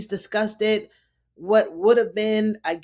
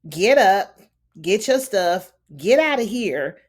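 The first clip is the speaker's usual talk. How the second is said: louder, hammed-up order to leave; mock angry order; 6 dB louder than usual. Wife ordering the handmaid out, loud mock anger. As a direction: throw the handmaid out with a half-mock yell.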